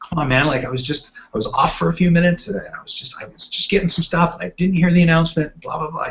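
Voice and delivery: half-hearted mock pleading; retold sob story. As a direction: mimic someone making excuses, dismissively running on. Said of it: "giving this big old sob story".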